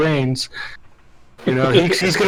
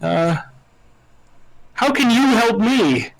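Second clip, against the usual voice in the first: lightly voiced smooth-talking wizard; a hint of a slick showman introducing himself; loosely hammed-up pimp wizard; 5 semitones higher, slower than usual. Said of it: "my new pimp wizard role".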